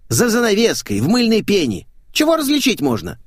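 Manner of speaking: high loud common woman voice; brash maid. Acted. Maid teasing her naked employer, cheeky and loud. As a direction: play a cheeky brash housemaid.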